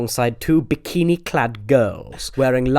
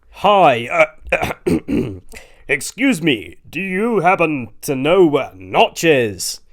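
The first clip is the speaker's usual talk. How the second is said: slowish, lightly put-on American; faux American accent; 5 semitones higher, 6 dB louder, slower than usual. A narrator's reading. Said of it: "in his faux American accent".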